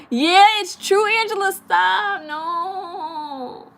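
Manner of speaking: high, loud giggling protest; high-pitched laughing no. Real, not acted. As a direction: laugh and beg them to stop. Reacting to a viewer's tease.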